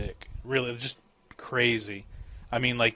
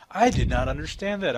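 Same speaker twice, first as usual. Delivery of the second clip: higher mock phone-system voice; automated phone voice; 4 semitones higher, 4 dB louder than usual. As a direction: imitate an automated operator apologizing. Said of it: "those automated phone systems".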